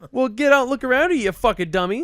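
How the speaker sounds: high, loud mock scolding; retold berating. Stranger to driver in the parking lot, berating. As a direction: imitate an aggressive stranger telling someone off.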